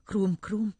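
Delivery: spoken pig oinks; playful mock grunting. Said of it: "Casa liền nói".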